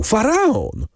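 high-pitched excited cry; calling out. A narrator's reading. Emanuel bursts in with news, crying out. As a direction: cry the ship's name high, without much volume. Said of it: "wołał".

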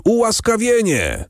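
high ringing cry of the crowd; the crowd crying pardon; crowd shout. A narrator's reading. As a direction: call it out high as the whole crowd. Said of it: "zawołał lud".

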